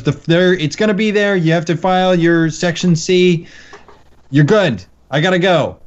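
rough imitation of a New York accent, brushing someone off; amateur accent. Call center guy getting rid of a caller, amateur New York accent. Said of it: "I don't do a great accent".

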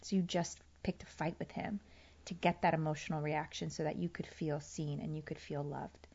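soft whispered self-talk. Retold or imitated. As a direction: quietly tell yourself the truth. Her inner voice explains.

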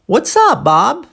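"What's up, Bob" peaking high on "up", lifting again on "Bob"; question turned back. Shown as a demonstration. Maggie returning the question to Bob, rising intonation. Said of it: "a pergunta devolvida pela Maggie foi".

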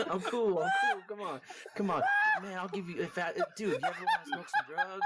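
sketchy laughing dealer voice; drug dealer voice. Acted. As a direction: hustle it like a shady dealer. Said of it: "it just became like a fucking drug dealer".

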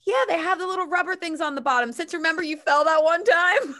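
high, quick voice broken by laughter; teasing, laughing. Retold or imitated. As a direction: tease your friend while laughing. Friend explains the socks, laughing.

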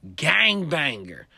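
loud slow tough declaration; slow menacing claim. Retold or imitated. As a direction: state it as a threat. Gangbanger announces himself.

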